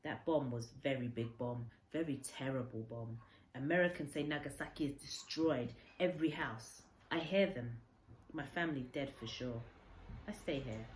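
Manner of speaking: a lightly voiced old Japanese man, grave and stunned; a hint of Kensuke's broken English, low and heavy with grief. Kensuke tells of the bomb.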